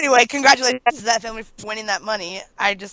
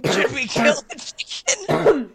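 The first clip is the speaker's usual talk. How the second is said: put-on worried kid voice; 5 semitones higher, much slower than usual. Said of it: "It's like".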